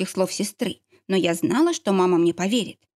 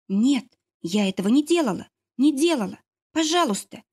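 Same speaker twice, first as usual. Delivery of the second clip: plea rising higher towards the end; pleading; 5 semitones higher than usual. A narrator's reading. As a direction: beg to be believed, climbing into a high please. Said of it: "умоляла я".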